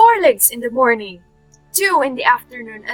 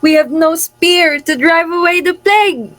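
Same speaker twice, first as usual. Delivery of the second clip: raised, declaimed plea; anguished lament; 5 semitones higher, 4 dB louder than usual. Acted. Chorus helpless against the plague, anguished high lament. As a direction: cry out helplessly in a higher voice.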